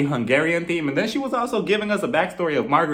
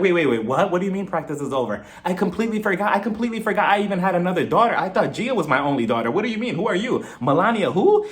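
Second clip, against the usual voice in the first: mock freaking out; 4 semitones higher than usual. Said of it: "she starts freaking out".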